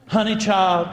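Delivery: imitated Louisville Southern drawl; thick Southern drawl. Older friend to birthday woman, imitated Southern drawl. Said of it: "in her thick Southern Louisville drawl".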